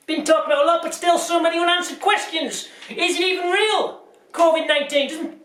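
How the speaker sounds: high, incredulous questioning; mock conspiracy anchor. Presenter musing conspiracies to viewers, incredulous. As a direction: sow doubt like a crank host.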